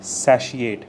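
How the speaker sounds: "satiate" with a "she" sound in the middle; pronounced with SHE. Shown as a demonstration. Teacher showing learners how to pronounce the word, "satiate" with a she sound. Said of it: "with a she in between".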